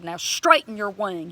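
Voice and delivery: loud order, punched on straighten; commanding. Retold or imitated. Believer ordering a hurt bird's wing straight, commanding. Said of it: "started commanding the bird".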